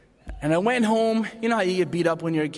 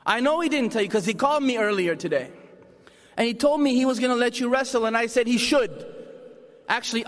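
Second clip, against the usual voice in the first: higher, mocking tough-love Irish mother; Irish mother teasing her beaten son, higher and mocking; tough Irish mom; 4 semitones higher than usual. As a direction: rub it in like a sarcastic mum. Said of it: "Irish love in her heart".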